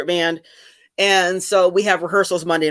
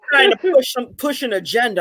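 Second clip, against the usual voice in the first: put-on Southern accent; 4 semitones higher than usual. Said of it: "I always do a Southern accent".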